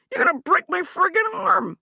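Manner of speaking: breathless, hoarse whisper of pain. Acted. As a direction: gasp it under your breath. Hugh in pain.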